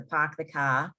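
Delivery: New England accent without R's; Boston accent. Shown as a demonstration. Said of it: "New England accent with the".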